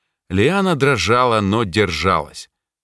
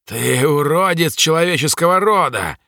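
demon shouting; 7 semitones higher than usual. Acted. Bound demon yells an insult at the mage, snarling shout. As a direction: spit the insult out like a cornered beast. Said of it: "выкрикнуло облако".

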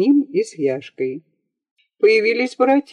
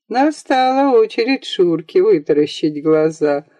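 ordinary delivery, nothing marked

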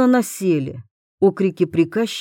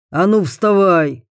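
barking order; 5 dB louder than usual. A narrator's reading. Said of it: "рявкнул".

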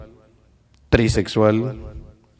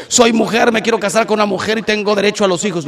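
imitating a claimant; 7 semitones higher, faster than usual. Voicing people claiming rights.

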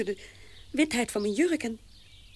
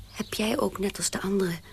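hushed, unvoiced shameful question; whisper; 4 semitones lower, 5 dB quieter than usual. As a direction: breathe it out as a confession. (fluisterend, beschaamd)

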